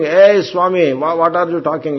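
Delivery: retold angry shout at a swami; imitated shouting. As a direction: call out in impatient anger, acting it. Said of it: "She is, uh, shouting".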